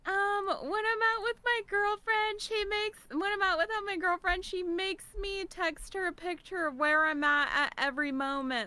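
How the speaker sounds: lightly voiced whiny viewer; quoting a chat viewer. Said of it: "they're like".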